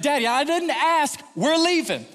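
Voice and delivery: high, loud, drawn-out command; stern overruling. Retold or imitated. Dad overruling his daughters, stern and worked up. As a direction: shut down the protest loudly.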